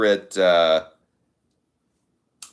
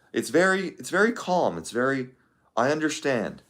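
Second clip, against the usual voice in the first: JD Vance voice; 3 semitones higher, 6 dB quieter than usual. Retold or imitated. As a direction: try on a calm lawyerly politician. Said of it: "controlled, deliberate way of speaking".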